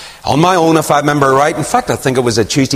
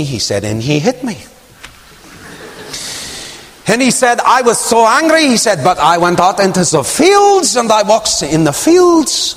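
broken English; 5 semitones higher than usual. Retold or imitated. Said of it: "I'm not mocking his accent".

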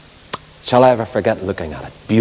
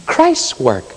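earnest preaching. Acted. Preacher pleading with the congregation about Christ's blood, solemn preaching. Preaching resumes after the story.

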